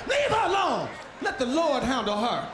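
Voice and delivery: a church usher hollering over the pews; mock usher shout. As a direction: yell it like an usher in the aisle. Church usher calming woman.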